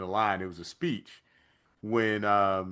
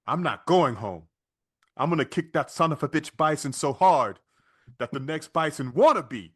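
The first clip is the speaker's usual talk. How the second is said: put-on Van Damme accent; 4 semitones higher, 3 dB louder than usual. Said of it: "And Van Damme in his accent".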